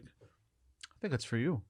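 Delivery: slow, soft, hushed warning; a friend in a dream, quietly and slowly telling him the alarm is for him; eerie quiet. Retold or imitated. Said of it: "It was creepy".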